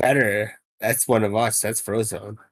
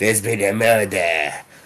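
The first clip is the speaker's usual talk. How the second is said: French accent, raised, a bit louder; 5 dB louder than usual. During a tabletop game, a player demonstrates how a line should be said: French accent like Poirot. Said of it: "I feel it should be said in some sort of French accent".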